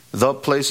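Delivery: "the" picked out before "place"; stress on THE. Shown as a demonstration. Preacher explaining the definite article, stress on "the". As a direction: lean on "the" to mark it as definite. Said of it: "with a definite article".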